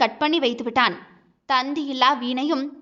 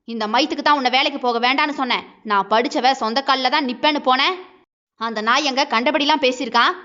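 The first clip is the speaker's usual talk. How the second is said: angry husband. Acted. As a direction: berate her, voice raised. Husband scolding wife on phone.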